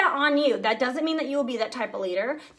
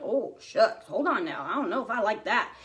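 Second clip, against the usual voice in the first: low, hesitant voice of someone backing off a scary dream; a touch of nervous folksy reluctance with a laugh; mock scared hesitation; 3 semitones lower, 4 dB quieter than usual. Leader to her team, imitating someone balking at big dreams, low and hesitant. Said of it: "if you're not like".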